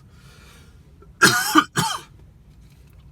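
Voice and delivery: loud hacking coughs. Real, not acted. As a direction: hack it out. Still choking on taquito.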